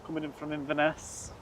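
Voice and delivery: put-on, slightly dodgy Scottish accent. Airport spotter reading out a Loganair arrival, in a shaky-quality Scottish accent. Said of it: "read the rest out in a Scottish accent as well".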